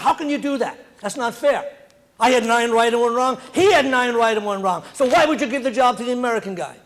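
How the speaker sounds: indignant protest with little added force; mildly indignant. Retold or imitated. Irishman protesting to foreman, mild mock indignation. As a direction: protest it, mildly bent out of shape. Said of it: "got all bent out of shape".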